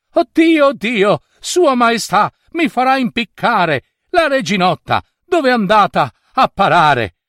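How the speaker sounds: high, frantic cries of despair; panicked wailing. A narrator's reading. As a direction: wail it in terror. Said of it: "si strappava i capelli".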